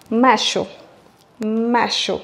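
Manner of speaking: mayo said nearly as macho, with sh. Shown as a demonstration. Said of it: "d'une façon plus forte".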